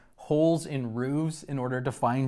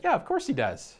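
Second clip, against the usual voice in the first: breezy dismissive self; 4 semitones higher, 5 dB louder, faster than usual. Retold or imitated. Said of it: "I'd be like".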